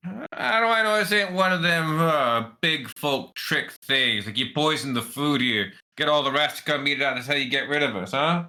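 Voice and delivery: lightly voiced wary rat; suspicious rat. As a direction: question the deal as a distrustful street rat.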